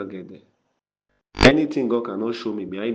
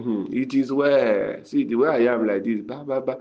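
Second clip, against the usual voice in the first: mock sighing story. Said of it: "then you tell them the story".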